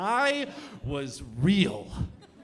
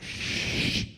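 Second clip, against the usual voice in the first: conspiratorial shush. Acted. Hushes audience about hidden trick.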